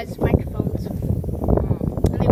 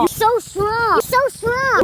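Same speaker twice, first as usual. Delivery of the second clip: teasing; 9 semitones higher, 3 dB louder, slower than usual. Pretend. Friend teases echoing.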